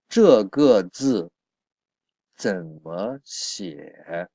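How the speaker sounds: slow, careful, syllable by syllable; slow model reading. Shown as a demonstration. Teacher modelling the new sentence for learners, slow and careful. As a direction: read it slowly so students can follow. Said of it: "teacher models the sentence slowly".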